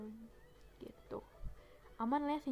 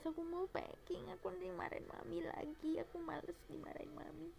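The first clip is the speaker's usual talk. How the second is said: whispered aside; 5 semitones higher, 5 dB quieter than usual. Real, not acted. Whispering to fans that mom will scold her. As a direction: whisper so mom won't hear.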